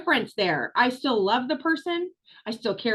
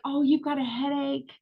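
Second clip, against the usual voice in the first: sweet understanding. Retold or imitated. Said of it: "would immediately be like".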